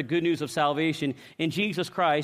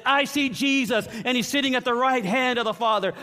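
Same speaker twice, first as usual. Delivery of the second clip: proclaiming; 5 semitones higher than usual. Acted. Stephen's cry while being stoned.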